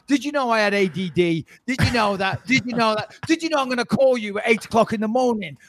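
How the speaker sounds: Cockney creeping into an impression; botched co-host parody with Cockney vowels; accidental Cockney. Host mimicking his bossy co-host, drifting into Cockney. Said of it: "why do I keep doing a Cockney accent".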